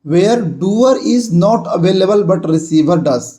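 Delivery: very slow, each word spaced out; slow classroom dictation. Shown as a demonstration. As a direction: dictate the rule slowly to the class. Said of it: "दूसरा है".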